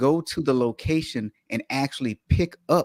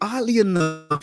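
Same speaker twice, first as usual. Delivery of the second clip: whispered aside; hushed, breathy whisper; 7 semitones higher than usual. Real, not acted. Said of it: "whispered punchline".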